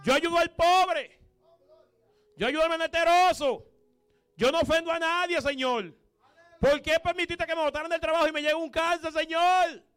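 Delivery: mock tearful complaint. Believer complaining to God in prayer.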